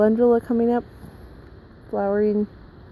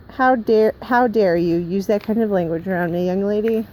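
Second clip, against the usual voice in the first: scolding. Acted. Scolding someone interrupting the vlog.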